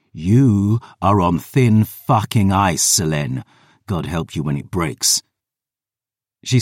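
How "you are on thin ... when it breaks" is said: menacing threat. Acted. Threatens his sister.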